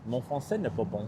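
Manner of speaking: French with a Quebecois accent. Shown as a demonstration. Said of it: "Quebecois accent a little too strong".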